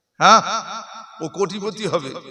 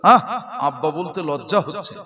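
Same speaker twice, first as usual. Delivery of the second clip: put-on scornful child, louder at the end; child ashamed of the father, mocking and rising; sneering child; 4 dB louder than usual. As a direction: curl the lip at the father. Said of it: "আর বলবে".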